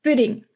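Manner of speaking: "Pudding" with a short, light Dutch U; careful Dutch model of "Pudding"; understated U. Shown as a demonstration. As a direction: barely lean on the U in "Pudding". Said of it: "It's very silent".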